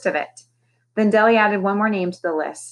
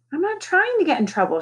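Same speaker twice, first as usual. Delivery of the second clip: shouting back; 10 semitones higher than usual. A narrator's reading. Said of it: "she shouted back".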